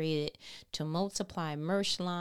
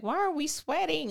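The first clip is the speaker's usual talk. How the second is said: much higher, louder panicky squeal; panicked body; 10 semitones higher, 6 dB louder than usual. Retold or imitated. The body panicking at rare crying, high and loud. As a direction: voice the body in sudden alarm. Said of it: "the body's like".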